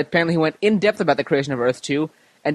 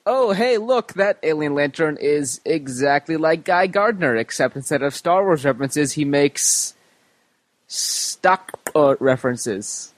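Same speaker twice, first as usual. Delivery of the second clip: alien voice; slower than usual. Acted. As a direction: put on a silly alien voice. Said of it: "uh, alien voice".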